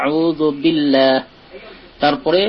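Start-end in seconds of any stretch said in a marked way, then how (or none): 0.1-1.1 আউযু বিল্লাহ drawn out slowly, the lam thin; slow recitation. Shown as a demonstration. Teacher reciting slowly for students. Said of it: "লাম আল্লাহটাকে পাতলা করতে হবে".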